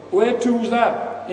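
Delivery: high, slow, loud bewildered question; befuddled old drunk. Acted. Old fellow worse for wear asking where he is, befuddled. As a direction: drag it out like a lost old drinker. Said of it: "who's the worse for wear".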